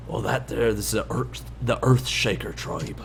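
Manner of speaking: Shorty whispering. Acted. Dwarf guide secretly explains the rival tribe, whispering. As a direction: keep it under the breath, trailing almost to nothing. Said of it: "He whispers this whole thing to you".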